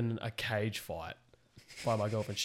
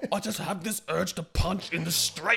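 whiny son; 6 semitones higher, 5 dB louder than usual. Retold or imitated. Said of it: "and you're like".

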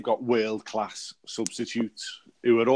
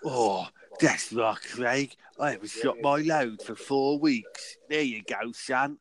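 Vardy impression. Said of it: "That was Vardy, 'cause he's a, he's a Cockney".

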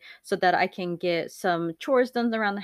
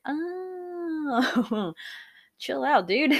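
telling herself off; 8 semitones higher, much slower than usual. Retold or imitated. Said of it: "I'm like".

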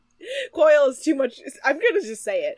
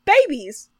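high, loud, fast imitation of a South London friend; mock British accent; 9 semitones higher, 5 dB louder than usual. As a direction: squawk it like a shocked Londoner. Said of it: "And Alicia's like".

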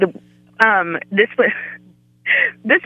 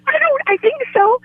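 retold confusion. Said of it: "I was like".

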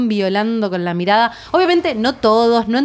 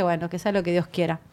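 resigned; 6 semitones lower, 9 dB quieter than usual. Retold or imitated. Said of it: "Entré, yo dije".

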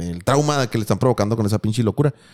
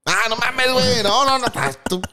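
high-pitched disbelieving outburst; shocked laugh-cry; 10 semitones higher than usual. Real, not acted. Host sees the video his friend sent, high shocked outburst.

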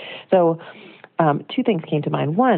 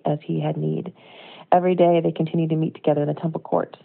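steady, measured Bible reading; scripture reading. Acted. Reading Acts to the congregation, measured scripture reading. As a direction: read the passage out to the church.

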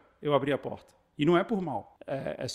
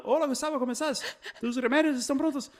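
a higher, chirpy mock Spanish greeting with a laugh; pharmacist's Spanish greeting; 9 semitones higher than usual. Pharmacy clerk calls every month, greeting him in higher, laughing mock Spanish. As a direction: imitate the pharmacy guy rattling off in Spanish. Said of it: "ele liga e sai falando".

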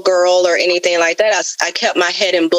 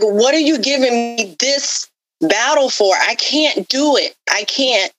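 a mild mock scream of despair, pitched up; retold anguished plea; 5 semitones higher than usual. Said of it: "yelling and screaming at him".

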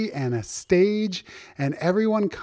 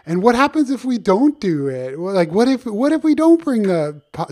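animal character voice; 6 semitones higher, 4 dB louder than usual. Acted. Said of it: "He said".

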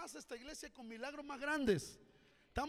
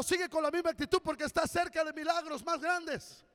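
louder, driven, the phrase "misma actitud" pushed out; loud exhortation; 3 semitones higher, 8 dB louder than usual. Shown as a demonstration. Pastor leading the congregation to tell their neighbor, loud exhortation. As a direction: proclaim "Sigue con la misma actitud" with full force. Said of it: "Vamos, dile que está a tu lado".

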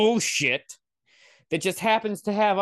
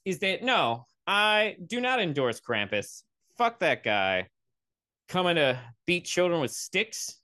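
ordinary delivery

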